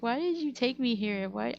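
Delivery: a touch of whiny mother; lightly voiced complaining mom. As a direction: lightly imitate mom's reproach. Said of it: "She's like".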